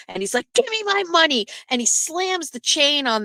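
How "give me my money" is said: mock angry demand. Customer confronting the jeweler over his chain, mock angry demand. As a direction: act out an indignant customer's demand.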